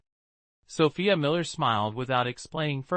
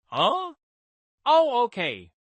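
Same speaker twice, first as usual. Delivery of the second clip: high, startled huh then quick okay; 9 semitones higher, 4 dB louder, slower than usual. Acted. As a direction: snap out of a daydream. Startled out of her thoughts.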